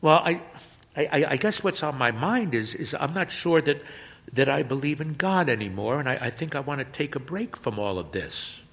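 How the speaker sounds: put-on stammering, hesitant teen; halting. Boy confessing doubt to the priest, halting and stammering. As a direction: stumble and restart each phrase. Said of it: "The boy speaks haltingly".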